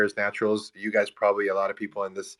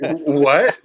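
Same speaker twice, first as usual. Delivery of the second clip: stunned; 6 semitones higher, 8 dB louder than usual. Retold or imitated. Stunned by client's brochure request.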